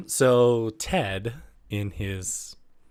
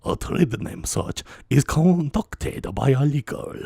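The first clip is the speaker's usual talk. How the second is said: Viceroy Nute Gunray; 3 semitones higher, 3 dB louder than usual. Acted. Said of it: "Viceroy Newt Gunray instead".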